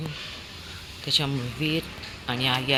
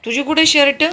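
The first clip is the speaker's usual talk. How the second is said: much higher, louder teasing question; playful squeal; 12 semitones higher, 12 dB louder than usual. Real, not acted.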